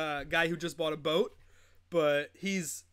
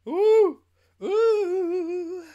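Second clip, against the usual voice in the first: big high-pitched ooh, much louder; 11 semitones higher, 8 dB louder than usual. Real, not acted. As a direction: react with a loud, high ooh. Exclaims at something.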